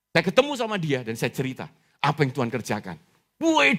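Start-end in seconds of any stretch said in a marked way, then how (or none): 3.4-3.7 high-pitched cry of surprise; startled reaction. Retold or imitated. Preacher mimics friend hearing his news, startled. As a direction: imitate a friend caught off guard. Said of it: "dia kaget".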